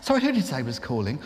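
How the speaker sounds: brisk polite query; switchboard operator. Retold or imitated. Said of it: "she came back".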